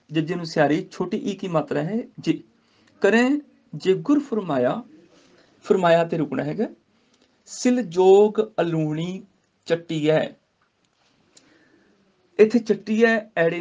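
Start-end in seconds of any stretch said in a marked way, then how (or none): 3.0-4.8 slow measured Gurbani recitation. Shown as a demonstration. Teacher recites the verse to students, slow. 7.5-10.4 slow measured Gurbani recitation. Shown as a demonstration. Teacher recites the verse to students, slow.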